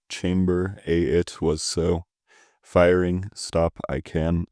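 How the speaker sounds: slow, halting word-by-word poem reading; deliberate recital with gaps between odd phrases; backwards reading. Shown as a demonstration. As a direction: read jumbled words in measured, separated phrases. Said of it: "try reading the whole thing backwards".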